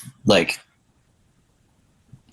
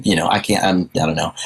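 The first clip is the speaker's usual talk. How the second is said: stumbling over words, too fired up; stammering; 3 semitones lower, faster than usual. Real, not acted. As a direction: trip over the words in excitement. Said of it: "I'm stammering 'cause I'm just so fired up".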